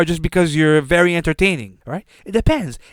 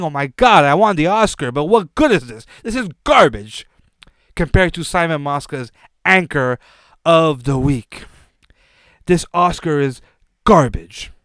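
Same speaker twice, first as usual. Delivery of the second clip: hammed-up fake despair, louder at the start; mock crying; 3 dB louder than usual. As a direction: whine like an actor tossing his award away in grief. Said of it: "he's crying. 'Cause he's saying".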